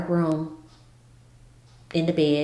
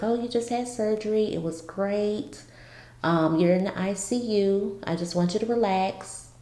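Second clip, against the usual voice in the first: lightly imitated cheerful nurse; a touch higher, breezy and reassuring; happy nurse; 3 semitones higher than usual. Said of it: "she was just in happy spirits".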